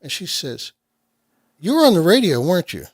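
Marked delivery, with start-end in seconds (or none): 1.6-2.8 excited recognition. Retold or imitated. Fan recognizing him excitedly.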